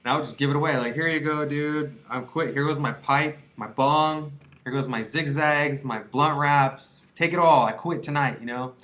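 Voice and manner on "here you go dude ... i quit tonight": a hammed-up farewell to the pipe and bong; grand giveaway. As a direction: make a big show of giving it all up. Giving away his weed stash.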